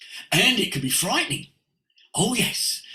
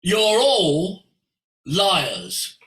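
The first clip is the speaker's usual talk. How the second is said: declaring to bankers; 5 dB louder, much slower than usual. Retold or imitated. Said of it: "And I went".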